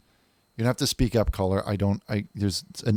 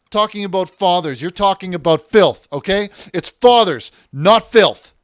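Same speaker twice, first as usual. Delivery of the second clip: higher, louder righteous scolding; indignant scolding sermon; 8 semitones higher, 5 dB louder than usual. Acted. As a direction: hammer the key words in moral outrage.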